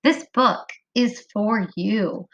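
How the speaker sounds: slow, word-by-word reading; slow modeled reading. Shown as a demonstration. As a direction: read it clearly for the kids. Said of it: "read easily".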